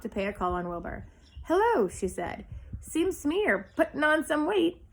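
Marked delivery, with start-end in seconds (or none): 1.4-1.9 lightly voiced old ewe, high; a chatty old sheep calling hello. Old sheep greets Wilbur. 2.8-4.8 high, lightly voiced old ewe; a nosy old sheep sizing him up. Old sheep teases Wilbur.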